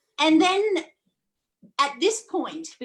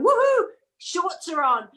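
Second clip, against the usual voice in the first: higher, mock-jubilant whoop; imitated cheer; 5 semitones higher, 3 dB louder than usual. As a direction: whoop it like a local thrilled by the warmth. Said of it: "and the guy's going".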